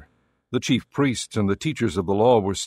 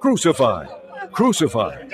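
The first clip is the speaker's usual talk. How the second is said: two short, moderately raised cries; crowd shouting; 2 semitones higher than usual. Acted. Priests and officials see Jesus, calling for execution. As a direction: call it out as a demand. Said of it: "they shouted".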